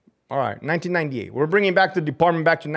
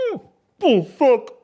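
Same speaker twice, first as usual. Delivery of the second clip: laughing curse; 10 semitones higher, 3 dB louder, slower than usual. Real, not acted. Laughing at the scandal.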